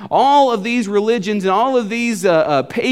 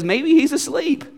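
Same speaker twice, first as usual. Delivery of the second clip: higher-pitched mocking suggestion; sarcastic taunt; 4 semitones higher than usual. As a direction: taunt them like a sarcastic prophet. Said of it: "he's being sarcastic there".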